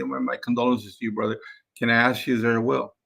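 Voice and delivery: soft, gentle condolences to a grieving seller; sympathetic. Shown as a demonstration. Rep offering condolences to the grieving seller, softly sympathetic. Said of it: "be sympathetic and say".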